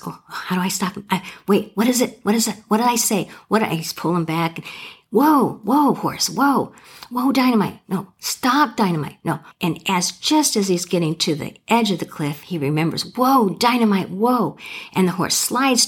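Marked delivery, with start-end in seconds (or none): 0.1-3.6 mildly panicked, higher-pitched muttering to self; storyteller's mock panic, pitched up; panicked rider. Rider panics, forgetting the stop word. 5.1-9.4 high, urgent calls to a runaway horse; storyteller's mock panic, pitched up; panicked rider. Rider pulling back on runaway horse. 13.2-14.6 higher-pitched, acted last-second call to a horse; storyteller's mock urgency; urgent command. Remembers command at cliff edge.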